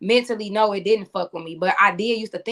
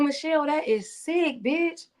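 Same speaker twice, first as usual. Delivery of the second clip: mock disgust; 6 semitones higher, 3 dB quieter, slower than usual. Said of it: "I used to be like".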